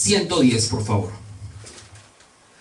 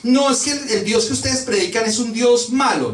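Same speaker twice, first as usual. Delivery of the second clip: higher-pitched imitation of frightened listeners; mock alarmed; 4 semitones higher than usual. Preacher imitates people scared by the gospel, mock alarmed. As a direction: whine a mock-scared objection. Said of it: "la gente se asusta y dice".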